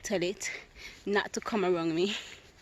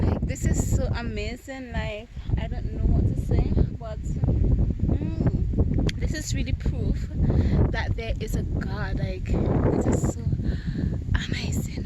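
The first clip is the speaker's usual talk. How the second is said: moved; 4 dB louder than usual. Real, not acted. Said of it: "I'm not even crying".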